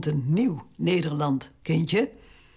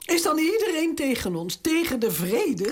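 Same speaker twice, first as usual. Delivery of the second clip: much higher, rushed anguished questions; despairing outcry; 9 semitones higher than usual. Acted. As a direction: cry out at the betrayal. Queen despairs at betrayal. (wanhopig uitroepen, veel hoger)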